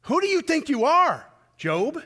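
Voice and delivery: who do you think you are, Job said high and loud; booming divine rebuke. Retold or imitated. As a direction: thunder it down as God rebuking Job. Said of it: "I'm paraphrasing".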